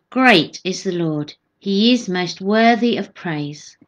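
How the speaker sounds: measured, proclaiming psalm reading; scripture reading. Acted. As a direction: read the psalm out to a congregation. Reads psalm aloud.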